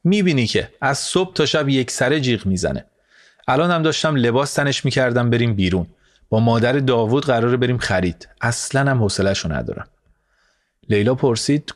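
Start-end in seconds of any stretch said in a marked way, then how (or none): 0.0-9.9 mild whining. Acted.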